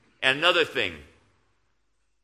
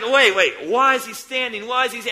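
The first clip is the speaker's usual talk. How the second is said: louder, higher, urgent double take; a preacher reliving his puzzlement over Stephen's words; puzzled; 6 semitones higher, 6 dB louder than usual. Retold or imitated. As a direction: press the question twice, cutting off. Preacher retells his own puzzlement.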